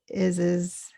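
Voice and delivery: IS AS light and run together; lightly blended. Shown as a demonstration. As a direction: glide lightly through IS AS as one. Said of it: "lightly said and kind of blended together".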